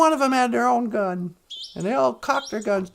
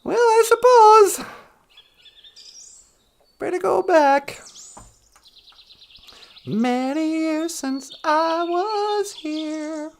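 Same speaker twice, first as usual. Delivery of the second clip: raised pitch, drawn-out theatrical musing; slowing into mock nostalgia; wistful leave-taking; 4 semitones higher, 4 dB louder, slower than usual. Holodeck visitor about to go back, wistful.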